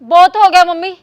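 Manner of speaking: angry outburst. Acted. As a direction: finally snap at her. Daughter-in-law snaps back. (ਨੂੰਹ ਦਾ ਸੱਸ ਅੱਗੇ ਗੁੱਸਾ)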